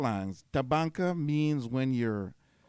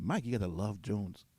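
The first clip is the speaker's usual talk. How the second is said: imitated American accent, a little lower and softer; 4 semitones lower, 5 dB quieter than usual. Friend telling Mike about his love jones, in an American accent. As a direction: put on a light American accent. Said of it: "American accent".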